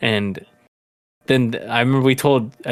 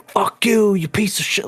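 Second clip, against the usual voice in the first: high mock yell at the worker; imitating a furious drunk; retold drunk yelling; 9 semitones higher than usual. Drunk guy cursing at the pool worker, mock angry yell.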